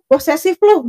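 retold accusing jab at the girlfriend; mock accusing jab. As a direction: toss the word like an insult. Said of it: "di ujungnya dia ngomong".

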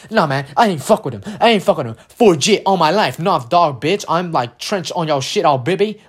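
mock tough-guy bravado; mocking street-tough swagger; tough kid. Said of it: "like, super tough".

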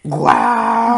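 high, loud amazed wow; surprised wow. Real, not acted. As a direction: gasp it out in amazement. Reacting to surprising coincidence.

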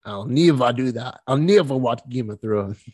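slow, lightly put-on Australian accent; a hint of fake Australian accent. Shown as a demonstration. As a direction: try a mild mock Aussie accent. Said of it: "I like Australian accents a lot".

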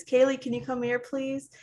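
a mom asking her daughter to come, high; calling child. Retold or imitated. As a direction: call sweetly, asking nicely. Mom calling third time.

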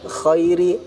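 khairi with voiceless scraped kh. Shown as a demonstration. Teacher listing mistakes, voiceless kh in khairi. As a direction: start khairi on a dry rasp. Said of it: "jangan sampai dibaca".

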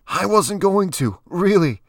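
very high, loud, desperate protest; high-pitched pleading under threat; strained denial. A narrator's reading. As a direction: squeeze out a drawn-out denial. Pinned man denies the accusation.

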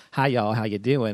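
understated, easygoing Southern greeting; lightly Southern, at an everyday volume; mild Southern accent. Shown as a demonstration. Host showing a milder Southern accent to the panel, mild Southern accent. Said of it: "There's some Southern accents, it's like".

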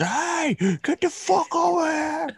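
high, far-off mock scream at a teammate; mock yell. Pickup player screaming at a teammate, mock angry yell.

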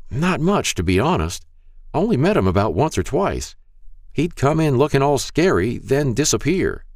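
put-on high, frail old man voice; Mister Hall's frail voice. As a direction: speak like a frail elderly shopkeeper. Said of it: "a frail voice said".

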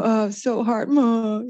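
high mock whine of a little kid; whiny child. Son gives up on grabbing the ball, mock whiny. Mother voices her struggling seven-year-old son.

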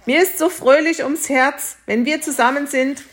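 höher, beschwingt; fröhlich. Acted. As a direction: die Freude überschwappen lassen. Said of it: "rief der Bauer". (fröhlich gehoben, höher gesprochen)

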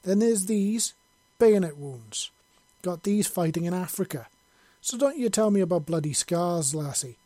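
proud angry Scot listing his scars; indignant and proud. A narrator's reading. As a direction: boast and scold at once, full brogue. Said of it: "with a mixture of indignance and pride".

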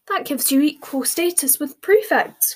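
put-on high, loud, delighted girl's voice; happy cry. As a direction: burst out with joy. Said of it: "cried Hermione happily".

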